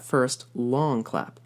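"long" stretched and stressed slowly. Shown as a demonstration. Teacher pinpointing the heart flutter, slow stressed. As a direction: lean slowly on "first long clap". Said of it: "the place where the palpitation really happens".

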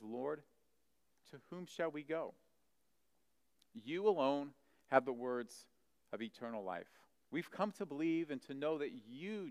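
soft, reverent reply; earnest devotion. Retold or imitated. Simon Peter answers Jesus after others left, quietly earnest. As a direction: answer gently, as a faithful disciple.

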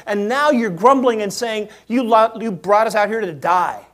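a hint of a frustrated God; God speaking. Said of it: "He says".

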